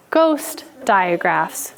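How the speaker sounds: "ghost digraphs" slowed, "ghost" stretched; slow stress on ghost. Shown as a demonstration. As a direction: linger on "ghost".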